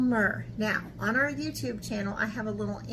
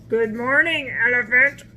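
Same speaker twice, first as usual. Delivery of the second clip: cheerful animals; 7 dB louder than usual. A narrator's reading. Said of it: "they said".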